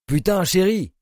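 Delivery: choked, breathless cry; gasping. Acted. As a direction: gasp it out after the shock. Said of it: "suffoqua-t-il". (suffoqué, à bout de souffle)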